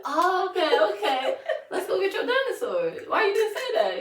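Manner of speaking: loud, high, laughing outburst; mock exasperated relief. Parent to toddler about his dinosaur, loud laughing exasperation. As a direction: cry it out as if finally let in on it.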